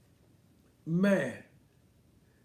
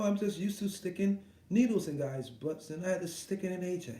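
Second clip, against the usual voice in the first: mock sarcastic Ruiz. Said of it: "That's him being sarcastic as shit".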